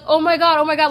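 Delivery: high, loud panicked gasping; panicked onlookers. Retold or imitated. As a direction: cry it out like horrified bystanders. Bystanders rushing to crash.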